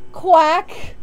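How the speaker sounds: loud rising duck quack; Donald Duck voice. Pretend. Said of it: "I'm going to do my Donald Duck impression".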